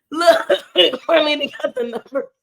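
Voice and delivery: laughing through the words; laughing, pleased with Marlena. Real, not acted. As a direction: say it while laughing. Laughing praise of a chat member.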